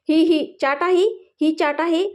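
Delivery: put-on sulky disdain, endings lifted; disgusted pout. A narrator's reading. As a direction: sneer at it through a twisted mouth. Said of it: "तोंड वाकडं करत".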